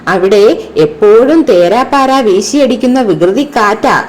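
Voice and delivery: put-on lively storybook narration for children; ഉത്സാഹത്തോടെ കഥ വായിക്കുന്നു; story reading. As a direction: read the kite tale expressively to pupils. Dialogue reading continues.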